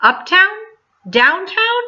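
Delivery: put-on worried child asking; anxious questions. A narrator's reading. Boy asks anxiously.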